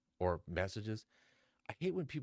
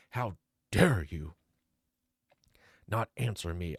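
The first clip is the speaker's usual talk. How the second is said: mock outrage; 6 dB louder than usual. Reads the angry text aloud.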